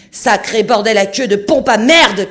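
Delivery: juron hurlé, lent et bien plus haut; cri hors de lui. A narrator's reading. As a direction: explose de rage devant le trou. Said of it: "cria-t-il hors de lui". (le capitaine jure en hurlant devant la coque trouée)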